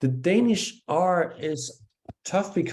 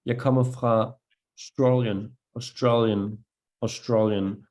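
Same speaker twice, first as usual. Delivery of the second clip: English-speaker front R; 3 semitones lower than usual. Retold or imitated. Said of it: "American speakers or Australians who will say".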